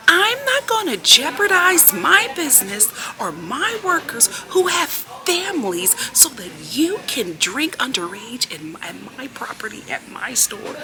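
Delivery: high, slow, drawn-out mimicked telling-off; retold top-of-lungs tirade. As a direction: act out the manager laying down the law, each phrase stretched. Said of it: "like, at the top of her lungs".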